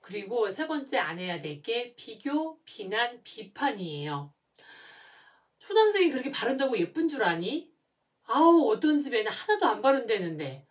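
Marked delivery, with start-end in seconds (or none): 5.6-10.7 louder, quicker mock nagging; a mother nagging her daughter about her looks; comparing, nagging parent. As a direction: needle the child by comparing her to others. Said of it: "또 비교를 하세요".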